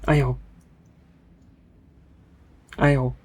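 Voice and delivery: shouted spells. Real, not acted. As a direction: yell each spell name at the game.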